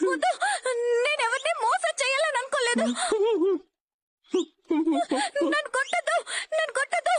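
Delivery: high frantic begging, don't hit me; terrified pleading in sleep. Acted. Wife screaming in a nightmare, begging not to be hit, high and frantic. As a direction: cry out from a nightmare, begging to be spared. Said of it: "ఎందుకలా అరిచావు".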